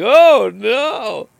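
high, loud mock-worried oh no; concerned. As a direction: play the friend's sudden concern. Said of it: "He said it all, like, concerned".

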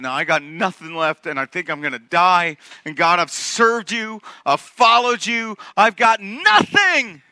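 exhausted despair. Acted. Worn-out Elijah pleading with God, building despair. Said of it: "maxed out, done, exhausted".

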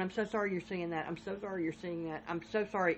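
a hint of a gentle operator soothing a caller; sympathetic operator. 911 operator consoling the neighbor, soft and sympathetic. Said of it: "operator's going".

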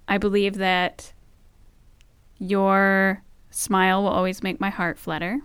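heartfelt vows. Real, not acted. Reciting wedding-style vows.

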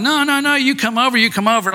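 high-pitched mock yell, easing down; insistent high call, not full volume; imitated group yelling. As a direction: imitate friends calling someone over. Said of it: "they're all yelling".

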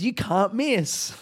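slow cartoon bird voice with a laugh in it; app bird voice. Mocking the app's little bird to viewers, laughing. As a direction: mimic the cheery app mascot lightly. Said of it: "A little bird comes up and he goes".

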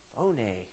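"phone" said in two syllables, FOH-nay; Greek pronunciation of phone. Shown as a demonstration. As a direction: add an "ay" ending to "phone". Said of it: "it's pronounced phone".

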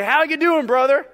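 lifted, over-friendly hello; hearty greeter. Acted. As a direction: greet a churchgoer with put-on cheer. Acts out greeter at the door.

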